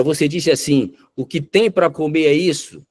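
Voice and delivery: imitated accusing husband, voice pushed up; insistent accusation. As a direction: throw the words back, pitched high and insistent. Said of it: "ele insistiu com ela".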